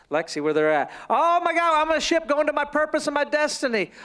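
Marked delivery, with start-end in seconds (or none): 1.1-3.9 higher, gushing mock optimism; excited. Traveler setting sail toward destiny, excited. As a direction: act out a surge of excitement. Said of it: "mimic to the average person".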